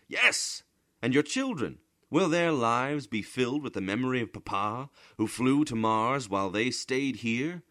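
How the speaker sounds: high, loud, scornful scolding; scornful lecture. A narrator's reading. Bramante scolding Bodini over his dream of Mars, high and loud.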